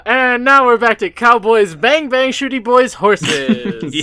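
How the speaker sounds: high, loud and giddy; excited. Real, not acted. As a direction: gleefully hype up the cowboys. Hyped return to cowboy topic.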